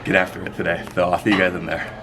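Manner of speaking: lightly lisping bodybuilder impression; hint of a lisp, measured delivery; Seabum. Impersonating a bodybuilder excited for ballet classes, light lisp. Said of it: "That's my impression of Seabum".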